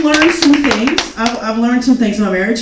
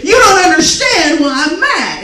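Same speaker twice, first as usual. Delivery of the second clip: louder, slow, higher, questioning each word; loud indignant echo; 6 semitones higher, 5 dB louder, slower than usual. Shown as a demonstration. Wife repeating his words as questions, loud and slow. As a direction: hurl his words back as outraged questions. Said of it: "repeating everything they said loudly ... question".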